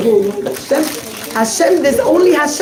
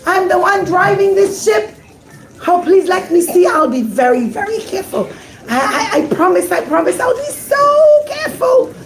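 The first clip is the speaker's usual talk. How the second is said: higher, coaxing ship captain begging; a captain wheedling for a look; pleading captain; 6 semitones higher than usual. Acted. Captain begs the rabbi to see the diamond, pleading. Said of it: "and he says".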